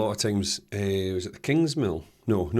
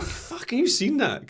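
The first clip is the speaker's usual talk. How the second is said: retold outburst; slower than usual. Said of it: "I was like".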